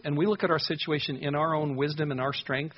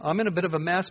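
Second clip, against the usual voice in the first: upbeat; 4 semitones higher, faster than usual. Retold or imitated. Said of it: "it actually seems a little upbeat".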